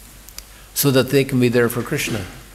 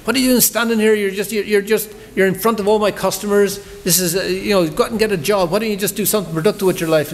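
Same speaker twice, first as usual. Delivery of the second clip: pitched-up angry rant at the book distributor; 8 semitones higher than usual. Retold or imitated. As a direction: lay into her like a furious stallholder. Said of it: "he started laying into her".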